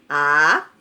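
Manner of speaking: "Aranha" said loud, syllable by syllable, A-ra-nha; syllables sounded out. Shown as a demonstration. Teacher to pupils, loudly sounding out "Aranha". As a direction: open the mouth wide on each syllable of "Aranha". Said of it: "Quantas vezes eu abri minha boquinha".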